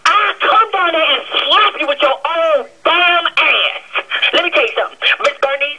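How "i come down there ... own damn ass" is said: slow, deliberate threat; angry owner threatening the receptionist. Real, not acted. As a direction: lean on every word.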